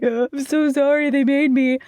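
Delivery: a hammed-up sob-story plea; mock bawling. Nicole apologizing to Terry in tears, mock bawling. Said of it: "bawling her eyes out".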